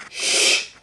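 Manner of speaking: sharp hiss of shh; shushing. Real, not acted. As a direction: hush the listener. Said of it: "Listen to the story".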